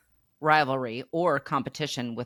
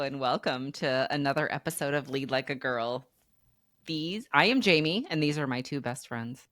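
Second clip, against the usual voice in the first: unenthused. Real, not acted. Host introducing her two best friends, unenthused. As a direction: welcome listeners with little enthusiasm. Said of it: "You sound so unenthused".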